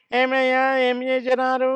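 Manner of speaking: squeaky mock official questioning; high comic imitation of a bureaucrat; tahsildar impression. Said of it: "అని ఒక ఆయన మాట్లాడేవాడు".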